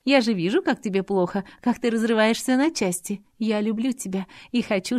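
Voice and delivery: put-on a hurt girl pouring out her heart; Adelaide pleading. A narrator's reading. Adelaide pleading with Robert, emotional.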